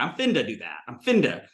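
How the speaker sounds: "finna" said as "finda". Retold or imitated. Quoting a friend from Michigan, D sounded. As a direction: slip a D into "finna", low-pitched. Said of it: "there was a D in it".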